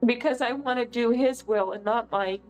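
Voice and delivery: speaking through tears; real crying. Real, not acted. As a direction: testify while crying, keep the words coming. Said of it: "Sorry, I'm crying my face off".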